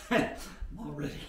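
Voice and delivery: breathless after the warm-up; panting between words; out of breath. Real, not acted. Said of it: "out of breath".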